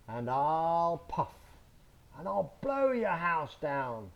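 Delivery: slow, drawn-out menace; wolf threat. Acted. Big bad wolf threatens the straw house, slow and menacing. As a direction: lean into the threat, slowly. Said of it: "the big bad wolf says".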